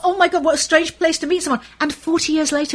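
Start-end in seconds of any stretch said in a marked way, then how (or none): 0.1-1.6 higher, mildly amazed inner voice; amused mock disbelief, pitched up; retold astonishment. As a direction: recall a funny shock. Retells her thought on meeting co-star.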